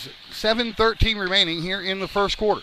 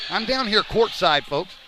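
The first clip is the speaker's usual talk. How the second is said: out of breath. Real, not acted. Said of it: "so I'm a little bit out of breath".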